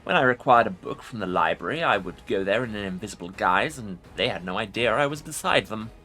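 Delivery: commanding undead lich voice; ancient rasping undead king. Acted. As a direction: speak as a proud ancient lich. Lich voice continues.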